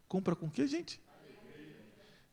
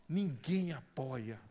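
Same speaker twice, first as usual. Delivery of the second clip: slow, deflated complaint; discouraged complaint; 5 semitones lower, 5 dB quieter, much slower than usual. Acted. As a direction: drag it out, let down.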